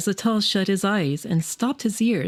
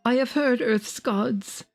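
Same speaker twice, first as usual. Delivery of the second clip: higher, ecstatic prophet's cry; rapt, raised voice of a prophet in triumph; wild delight; 3 semitones higher than usual. Acted. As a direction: exult as if hearing the gods sing. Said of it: "shouting wildly in delight".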